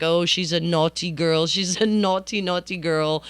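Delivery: hammed-up fake Australian accent; bad Australian accent. Talking about the alligator on camera, really bad Australian accent. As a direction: do a badly faked Aussie wildlife presenter. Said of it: "with a really bad Australian accent".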